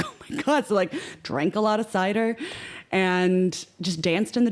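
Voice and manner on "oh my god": higher, laughing oh my God. Real, not acted. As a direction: laugh it out in happy disbelief. Reacting to nine cases of cider.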